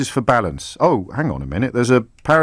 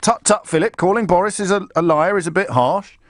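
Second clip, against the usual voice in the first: higher, sing-song mocking tut-tut; mock pompous quote; 7 semitones higher than usual. Vlogger mocking the magazine owner's scolding, higher and sing-song. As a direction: lampoon the smug editor.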